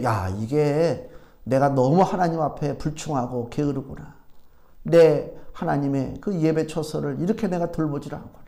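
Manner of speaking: low, subdued musing to himself; softly rueful, talking to himself; self-reproach. Retold or imitated. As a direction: retell a quiet, regretful admission before God. Preacher retells his prayerful self-reproach.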